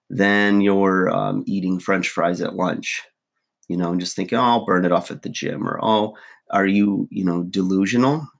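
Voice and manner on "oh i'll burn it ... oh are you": ordinary delivery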